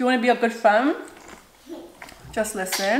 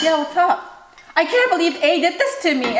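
higher, fake-friendly gossip voice; mock fake-sympathy gossip; 6 semitones higher than usual. Telling viewers how to fake sympathy to friend B, higher gossip voice. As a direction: play the sweet two-faced friend. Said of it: "And you're like".

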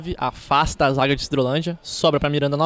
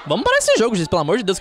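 urgent plea; 5 semitones higher, faster than usual. Real, not acted. Pleading with referee.

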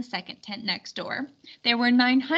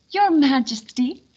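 raised, higher courtly greeting; formal welcome; 3 semitones higher, 6 dB louder than usual. Acted. Lady Di greeting the king, raised formal welcome. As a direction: present the king grandly.

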